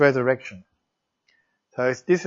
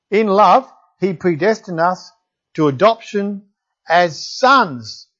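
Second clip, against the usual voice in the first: scripture reading; 3 dB louder than usual. Acted. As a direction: read it out like holy words to the congregation. Reads Ephesians passage aloud.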